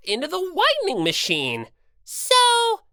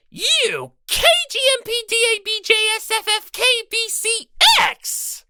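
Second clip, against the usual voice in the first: fast, higher rattled-off string of letters; rapid-fire letters; 8 semitones higher, faster than usual. Acted. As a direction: spit out the letters as fast as you can. Rattling off long insult.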